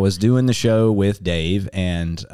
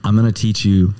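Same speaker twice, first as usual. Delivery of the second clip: bad Western accent. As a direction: present the show like a hokey Western cowboy. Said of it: "I definitely put on the accent".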